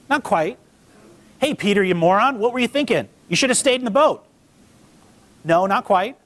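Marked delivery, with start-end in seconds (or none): 1.4-4.2 exasperated telling-off, pitched up; mock berating a foolish friend; mock scolding. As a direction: scold him in playful disbelief. Imagined Jesus scolding Peter, joking.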